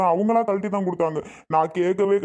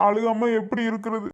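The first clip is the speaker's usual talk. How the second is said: mildly tearful protest; a touch of weeping in the words; acted crying; 3 semitones higher than usual. Jailed husband whose wife asks him not to cry, mildly tearful. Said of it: "அழுகாதீங்கங்க".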